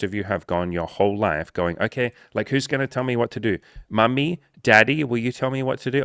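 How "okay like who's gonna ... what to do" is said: put-on high, pleading kid voice, louder on Mommy; mock whiny child voice; helpless child. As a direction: beg like a lost kid for Mommy and Daddy. Mocking helpless kid asking parents.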